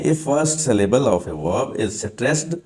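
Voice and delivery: very slow, word by word; slow dictation. Shown as a demonstration. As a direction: read the rule out for notes. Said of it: "dictating rule slowly". (धीमे-धीमे नियम लिखवाना)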